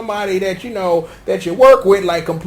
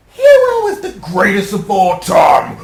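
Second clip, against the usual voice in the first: dropped voice. Acted. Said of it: "Why did my voice drop".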